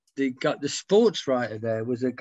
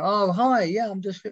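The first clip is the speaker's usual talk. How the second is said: higher and louder, gushing hello; an eager local greets the band member, pitched up; excited fan; 7 semitones higher, 4 dB louder than usual. Retold or imitated. Starstruck visitor greets a band member in the reading room, high and eager. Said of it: "They go".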